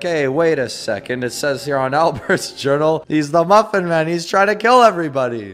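building from puzzled to high, loud mock alarm; imagined alarmed reader. Player imitating people reading Albert's journal, building mock alarm. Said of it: "They'll be like".

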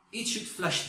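'flash' mispronounced with an open 'ah' vowel, like flush; yanlış telaffuz. Retold or imitated. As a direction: say 'flash' as a learner's 'flush'. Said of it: "flash kelimesi U'yla yazılıyor, yazılanı okuyormuşum". ('flash' kelimesi 'flaş' gibi, açık a ile)

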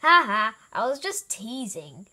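teasing with a loud ha ha; laughing. A narrator's reading. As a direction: laugh it off lightly. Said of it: "laughed Elmer".

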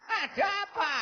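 high, grumbling elder telling off noisy youngsters; grumpy old grandpa. Acted. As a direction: scold them like a grandpa dragged out of bed. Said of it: "maunya si Mbah apa?".

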